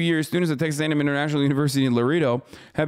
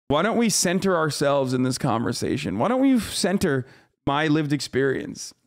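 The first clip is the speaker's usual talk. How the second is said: mock sincerity. Sarcastic paraphrase of the statement.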